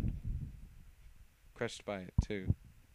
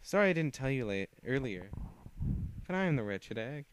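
playful villain voice; 3 semitones higher, 4 dB louder than usual. Acted. Villain introduces herself.

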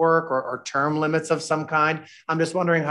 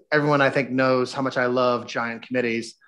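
dry, understated sarcasm; sarcastic. Real, not acted. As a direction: slip in a lightly sarcastic aside. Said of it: "sensing a bit of sarcasm".

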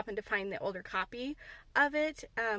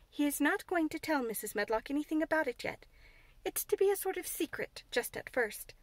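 firmly; 4 semitones higher than usual. Acted. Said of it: "said Mary firmly".

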